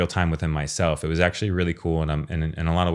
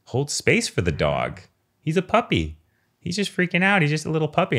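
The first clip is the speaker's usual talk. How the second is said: much higher, sing-song voice for a puppy; puppy talk; 11 semitones higher than usual. Retold or imitated. Owner coaxing himself to be patient with the puppy, much higher pitched. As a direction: coo it like baby talk to a pet. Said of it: "And then I'm like".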